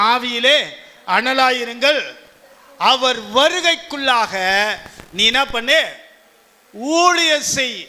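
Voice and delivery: ringing call to the flock; preaching exhortation. Acted. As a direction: urge the congregation to be ready.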